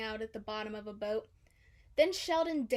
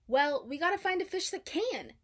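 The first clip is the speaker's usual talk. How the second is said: encouraging; 6 semitones higher, 4 dB louder than usual. A narrator's reading. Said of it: "encouraged Dory".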